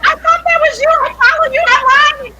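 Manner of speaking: high, loud fan squeal; freaking out. Retold or imitated. Woman recognizes doctor she follows online, freaking out. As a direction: imitate an overexcited follower shrieking. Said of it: "freaking out".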